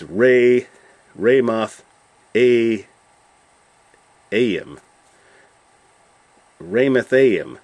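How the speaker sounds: "Ramathaim" with a long English "ray" at the start; anglicised "Ramathaim", RAY-muth-AY-im, in separate chunks; English pronunciation. Shown as a demonstration. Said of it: "if you did do this in English".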